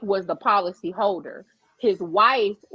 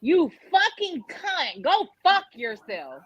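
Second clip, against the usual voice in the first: drawn-out mock insult; imitated white male customer; 3 semitones higher, slower than usual. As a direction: slowly act out an irate customer's curse. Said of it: "he was a white man".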